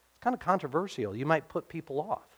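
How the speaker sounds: mock-confidential, hushed worry; secretive objection. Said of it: "like maybe there was a secret".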